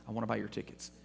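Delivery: low, soft imitation of a whisper; retold whisper. Scalper whispers to passers-by from the bushes, hushed retold offer. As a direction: quietly imitate a secretive ticket buyer. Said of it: "he whispers to you".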